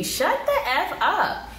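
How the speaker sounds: high and slow, fed-up; imagining the pastor's fed-up reaction, said high and slow; exasperated. Retold or imitated. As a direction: draw it out like you've had enough. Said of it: "Pastor Kyle's looking like".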